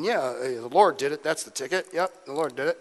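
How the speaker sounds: lightly imitated comic fibber; understated impression of a liar's routine; John Lovett. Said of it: "John Lovett's routine".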